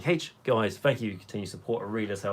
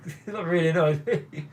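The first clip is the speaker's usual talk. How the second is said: laughing through the words, higher pitched; 6 semitones higher than usual. Real, not acted. Streamer laughing off their own pronunciation slip to viewers, laughing. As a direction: chuckle while talking.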